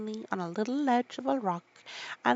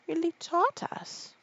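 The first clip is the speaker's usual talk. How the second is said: angry reply; 10 semitones higher, slower than usual. Acted. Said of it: "said the Mock Turtle angrily".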